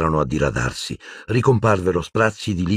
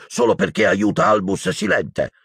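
high-pitched indignant protest; exasperated Hagrid; 13 semitones higher than usual. A narrator's reading. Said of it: "sbottò Hagrid". (sbottando con voce acuta)

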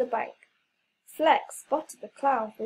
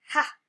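triumphant ha. Acted. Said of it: "Flex exclaimed".

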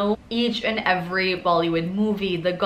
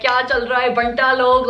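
Mumbai slang; 4 semitones higher, 6 dB louder, faster than usual. Acted. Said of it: "that kind of slang".

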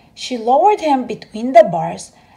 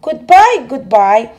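cried out goodbye; 6 dB louder than usual. Acted. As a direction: wave him off with a cry. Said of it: "cried out".

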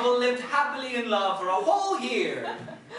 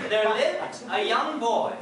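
laughing; 3 semitones higher, 4 dB louder, slower than usual. Real, not acted. Laughing through narration.

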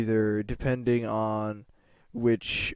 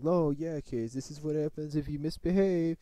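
higher, gloating mock teacher voice; imitated mocking teacher; 4 semitones higher than usual. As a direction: sneer like a teacher making an example of a pupil. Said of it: "like, laughed at me".

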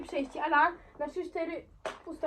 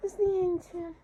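normal talking voice

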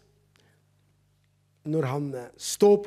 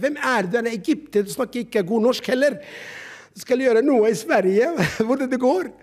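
mocking doubters; 5 semitones higher, 3 dB louder than usual.

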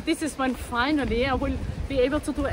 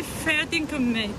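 attempted Aussie accent; 3 semitones higher, slower than usual. Shown as a demonstration. Coaching the date to sound local, Aussie accent demo. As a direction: demonstrate an Aussie catchphrase slowly. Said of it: "sound more Aussie".

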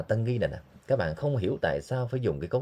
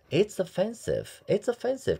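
modeled pronunciation; 12 semitones higher, slower than usual. Shown as a demonstration. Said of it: "teacher models phrase".

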